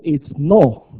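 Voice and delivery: "no" said plainly as the correct way; right no. Shown as a demonstration. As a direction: give "no" the correct vowel, calmly. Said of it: "It's not no".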